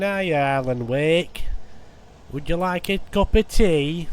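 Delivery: lightly voiced cheery Yorkshire welcome, slow; a hint of a chatty northern neighbour offering tea; friendly Yorkshire folk. Imagined friendly Yorkshire shadow people greeting Alan Wake, cheery. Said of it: "bloody friendly".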